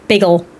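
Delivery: "bagel" short, rhymed with seagull, falling; matter-of-fact BAY-gull on "bagel". Shown as a demonstration. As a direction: say "bagel" with an unstressed -gull ending. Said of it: "like seagull".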